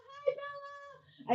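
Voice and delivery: high, slow drawn-out hello; sing-song greeting. Real, not acted. Host greeting a viewer in the chat, high drawn-out sing-song. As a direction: stretch the hello out sweetly.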